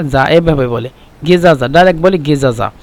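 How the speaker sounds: গেজাজা with a hard g in place of j; Egyptian pronunciation. Shown as a demonstration. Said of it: "এই জার পরিবর্তে মিশরিরা বলে".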